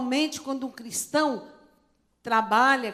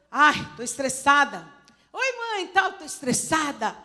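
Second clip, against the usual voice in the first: said cheerfully; 2 semitones higher than usual. Retold or imitated. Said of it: "Falando estressada, toda alegre".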